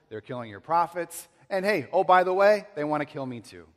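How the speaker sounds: loud, high, aggrieved protest to God; exasperated complaint. Acted. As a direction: pour out the grievance, voice climbing. Elijah's complaint acted out.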